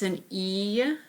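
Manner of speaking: E drawn out as its letter name; stretched long E; long E sound. Shown as a demonstration. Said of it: "Those are the long vowel sounds".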